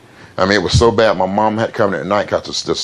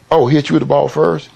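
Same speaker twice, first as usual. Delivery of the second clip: dad's surprised approval; 9 semitones higher, 4 dB louder than usual. Retold or imitated. Dad approves at principal's office.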